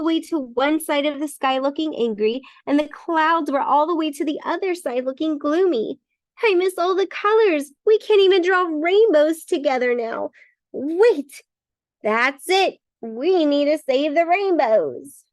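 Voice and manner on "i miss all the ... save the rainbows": crayon voice. Acted. Crayon character speaking.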